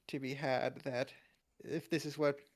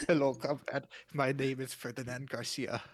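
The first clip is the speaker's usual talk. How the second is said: put-on Russian accent. Podcaster posing as a Russian comrade, mock Russian accent. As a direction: play a comic Russian guy with the accent. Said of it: "A, a Russian guy just".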